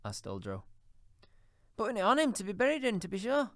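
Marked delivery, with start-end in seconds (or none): 1.8-3.5 with a laugh. A narrator's reading. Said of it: "replied the woman with a laugh".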